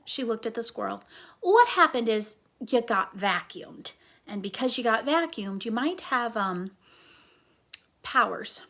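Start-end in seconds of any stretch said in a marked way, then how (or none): 1.4-8.6 louder, earnest telling; emphatic explaining. Acted. Flora tells the squirrel loudly about his powers. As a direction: Flora leans in and announces it.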